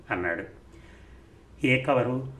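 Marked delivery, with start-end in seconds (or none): 1.7-2.3 higher and louder, acting like she knows nothing; feigned innocence. Shaila to Rambabu, playing dumb about the envelope, feigned innocence. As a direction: play dumb to hide the envelope. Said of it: "ఏమీ తెలియనట్టుగా అంటున్నాను".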